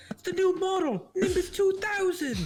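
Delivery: laughing. Real, not acted. Joking about broomstick answer.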